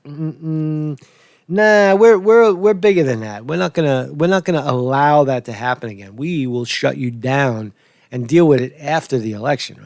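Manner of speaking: smug dismissive tech platform; mocking social media voice. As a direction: play the arrogant gatekeeper. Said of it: "social media this time says".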